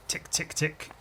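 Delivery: whispered clock ticks; hushed, evenly spaced ticks; ticking clock. Acted.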